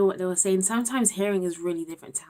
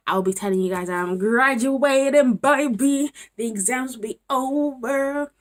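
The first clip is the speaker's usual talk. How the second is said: loud, high, celebratory; triumphant, almost sung-out cheer; jubilant announcement; 6 semitones higher, 8 dB louder than usual. Real, not acted. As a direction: proclaim it like a victory cry. Gleeful announcement of future graduation.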